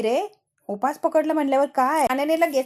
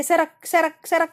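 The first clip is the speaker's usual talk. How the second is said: put-on pushy old woman; 6 semitones higher, much slower than usual. Grandmother pushing into seat.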